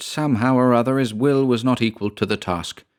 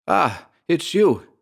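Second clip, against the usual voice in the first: lightly voiced son, higher and slow; son's voice; 9 semitones higher, slower than usual. A narrator's reading. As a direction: greet slowly on a raised pitch. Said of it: "he heard in the son's voice".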